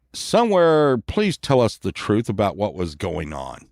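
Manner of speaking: mock-serious cop questioning; police officer. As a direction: sink into a low, official plea for the truth. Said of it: "and they were like".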